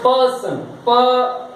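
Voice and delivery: पर्सन slowly, pausing after प; syllable split. Shown as a demonstration. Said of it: "pause हो ना". (पर्सन को रुककर धीरे बोलना)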